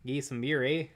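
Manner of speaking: mock Canadian Get some beer with a rising eh; hammed-up Canadian accent; playful mock Canadian. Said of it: "No, that's Canadian".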